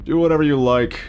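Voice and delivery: lightly voiced gleeful villain; taunting villain. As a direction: tease the hero like a playful killer. Reads villain dialogue in voice.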